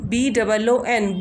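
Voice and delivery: letters spelled slowly one by one; slow spelling. Shown as a demonstration. Teacher spelling boon for the class, slow. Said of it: "ऊ की sound आ रही है".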